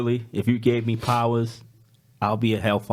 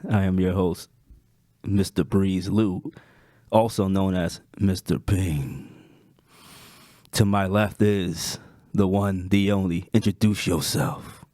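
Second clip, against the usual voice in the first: slow, drawn-out sultry introduction; sultry host voice. Acted. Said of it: "entranced by your sultry voice".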